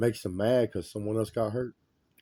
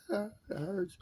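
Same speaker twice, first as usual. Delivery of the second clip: imitating pained scream; 12 semitones higher, 6 dB quieter than usual. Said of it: "So you're screaming".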